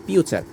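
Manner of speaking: "পি উচ্চার" as future with "chu" for TU; "পি উচ্চার", T turned to ch. Shown as a demonstration. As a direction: say "পি উচ্চার" like fyu-char. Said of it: "টির উচ্চারণ চ হয়েছে".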